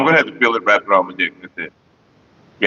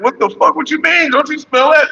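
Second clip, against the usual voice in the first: disgusted disbelief; 12 semitones higher than usual. Retold or imitated. Arguing with his own dick, disgusted and high. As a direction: recoil from the smell. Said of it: "I'm like".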